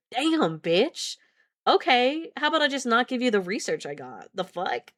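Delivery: playfully worked-up retort; mock outrage. Reader snapping back at a story character, mock outrage. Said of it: "Let me just calm down".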